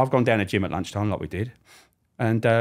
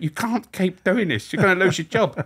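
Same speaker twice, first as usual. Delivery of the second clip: scolding wife; 11 semitones higher, 3 dB louder than usual. Retold or imitated. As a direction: warn him like a fed up wife. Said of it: "she went".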